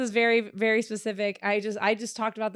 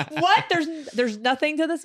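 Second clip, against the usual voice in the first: exasperated; 4 semitones higher than usual. Retold or imitated. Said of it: "I was like".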